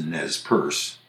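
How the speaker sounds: Nez Perce as nezz PURSE; English pronunciation. Shown as a demonstration. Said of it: "when the English took over the name".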